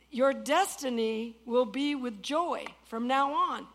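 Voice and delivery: slow, weighty preaching; slow emphatic proclamation. Shown as a demonstration. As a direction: lean on each word of the promise. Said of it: "If you listen to that word".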